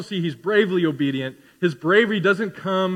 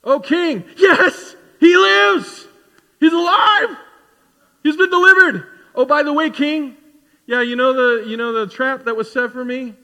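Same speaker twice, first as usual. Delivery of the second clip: excited Daniel; 6 semitones higher, 8 dB louder than usual. Retold or imitated. Daniel answering the king, retold.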